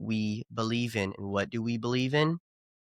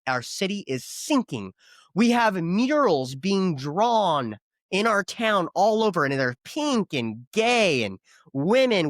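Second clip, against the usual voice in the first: calling someone out; 4 semitones higher, slower than usual. Pretend. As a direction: scold a passer-by for doing nothing. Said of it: "I'm gonna call you out and say".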